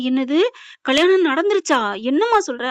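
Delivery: acting out a startled father questioning; shocked disbelief. Father hears of the wedding from Nila, shocked disbelief.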